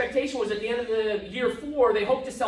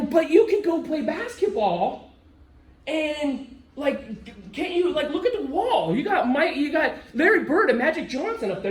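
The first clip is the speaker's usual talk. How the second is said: a raised, eager pitch to a friend about his heroes; excited urging; 4 semitones higher than usual. Retold or imitated. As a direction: egg him on, pointing at the wall. Urging Jordan in retold talk.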